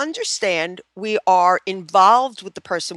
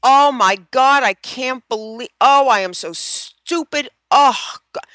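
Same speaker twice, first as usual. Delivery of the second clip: acted self-reproach; 4 semitones higher, 5 dB louder than usual. Therapist demonstrates owning a mistake, loud mock dismay. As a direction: wail at your own clumsiness, hammed-up. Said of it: "you would probably should use some expletives like".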